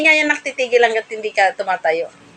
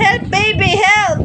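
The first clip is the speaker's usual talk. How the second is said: pretend cry for help; 8 semitones higher, much slower than usual. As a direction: cry out as if falling, all in fun. (malakas na kunwaring sigaw ng tulong)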